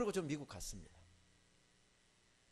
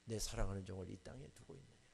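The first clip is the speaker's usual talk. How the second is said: God rebuking. Retold or imitated. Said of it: "책망하시더라고요".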